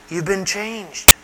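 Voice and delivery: slow emphasis. Acted.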